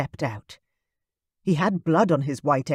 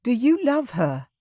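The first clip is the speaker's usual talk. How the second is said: put-on higher, pleading young woman's voice; tearful Kayla; 9 semitones higher than usual. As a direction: ask it through held-back tears. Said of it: "She gulped audibly".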